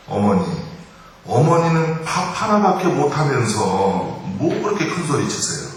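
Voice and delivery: daughter-in-law's cutting comeback, pitched high; triumphant retort. Acted. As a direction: deliver the knockout line, mock-indignant. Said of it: "며느리가 통쾌하게 끝내기". (통쾌하게 받아치는 며느리 말투)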